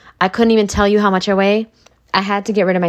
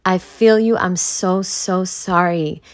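sympathetic friend; slower than usual. Retold or imitated. Comforting a crying best friend, tender and sorry. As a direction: coo sympathy, then slow right down. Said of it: "You're gonna say".

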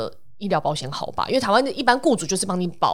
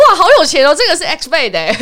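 amazed, laughing; 9 semitones higher, 8 dB louder than usual. Retold or imitated. Mock-impressed quote of staff.

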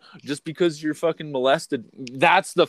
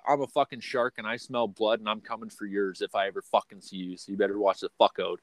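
low menacing threat; 4 semitones lower, 5 dB quieter than usual. Real, not acted. Threatens the rival.

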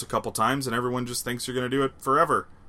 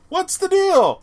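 high, louder disbelief; incredulous; 6 dB louder, slower than usual. Real, not acted. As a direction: squeak out the question. Incredulous about the age.

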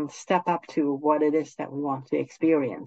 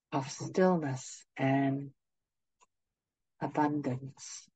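guided meditation; 4 dB quieter than usual. Acted. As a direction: ease them gently into stillness.

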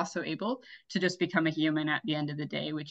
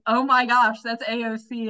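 excited gasp-like outburst, higher and louder; retold freak-out; 6 semitones higher, 5 dB louder than usual. Telling friends about spotting AOC in a passing car, excited freak-out. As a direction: starstruck yelp on spotting someone famous. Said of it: "I, like, freak out and freeze".

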